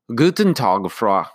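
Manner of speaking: friendly German greeting. Acted. Postmaster greets the woman customer, friendly German. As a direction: greet her warmly in German. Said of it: "he began to greet her in his usual friendly fashion".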